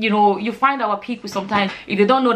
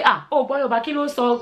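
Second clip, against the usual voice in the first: acted surprise; 3 semitones higher than usual. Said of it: "They looked at me like".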